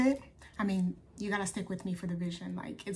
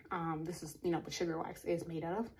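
short, shallow breaths between words; talking while out of breath; 3 semitones lower, 4 dB quieter than usual. Real, not acted. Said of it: "I'm sorry, I'm out of breath".

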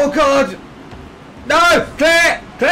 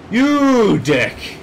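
higher, louder silly insult; silly put-on voice; 6 semitones higher, 3 dB louder than usual. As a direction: fling it in a daft voice. Repeats insult in odd voice.

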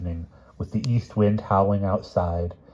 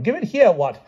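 very high, insistent demand; rising tone; 14 semitones higher, 4 dB louder than usual. A narrator's reading. King demands his poem from Palomides, tone risen high. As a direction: demand it at the top of a climbing pitch. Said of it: "added he in a rising tone".

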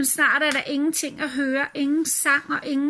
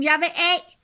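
calling out; 4 semitones higher, 4 dB louder than usual. A narrator's reading. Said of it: "råber hun".

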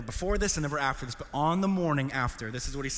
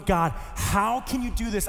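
higher, slow, wounded questioning; devastated plea; 4 semitones higher, 3 dB louder, slower than usual. Retold or imitated. Devastated son questioning God after the news, pleading. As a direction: plead with God in mild retold anguish. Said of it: "I was devastated".

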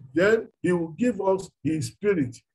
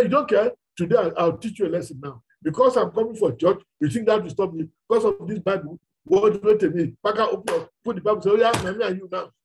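mock threat; 3 dB louder, faster than usual.

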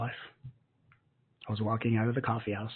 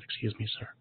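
polite; 4 dB quieter than usual. Retold or imitated. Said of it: "I politely said".

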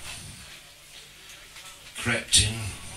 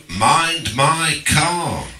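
shouted warning; 5 semitones higher, much slower than usual. Retold or imitated. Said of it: "shouted out of the window".

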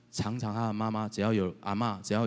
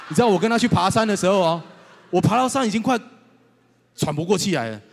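laughing, breathless; 9 semitones higher, 9 dB louder than usual. Real, not acted. Laughing about climbing the mountain.

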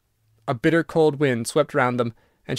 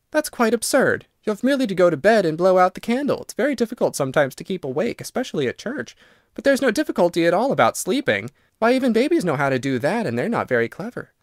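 put-on higher, chatty girl's voice; lightly voiced girl, pitched up; lively young Virginia; 5 semitones higher than usual. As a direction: brightly persuade a reluctant ghost.

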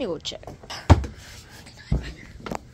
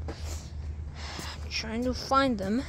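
"I'm trying to find them" stretched very slowly, word by word; drawn-out; 4 dB quieter, much slower than usual. Shown as a demonstration. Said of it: "repeated slowly as a demo".

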